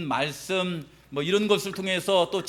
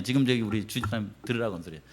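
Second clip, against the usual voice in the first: ordinary talk, nothing marked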